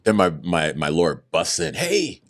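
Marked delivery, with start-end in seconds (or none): 1.8-2.2 high, bright hey as he bursts in; excited greeting. Retold or imitated. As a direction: call out happily, pitched way up. Lawyer bursts in.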